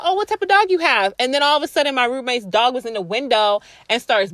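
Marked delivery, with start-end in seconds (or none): 0.0-1.1 quoting the lady. Retold or imitated. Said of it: "And she was like".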